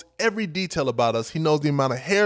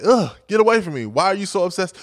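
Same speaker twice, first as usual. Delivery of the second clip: exasperated, pitched-up brush-off; Professor Oglesby's irritation; 4 semitones higher, 4 dB louder than usual. Retold or imitated. Professor rebuffs his admirer, irritated. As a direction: push them away with an annoyed groan up front. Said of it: "That was his attitude and his energy".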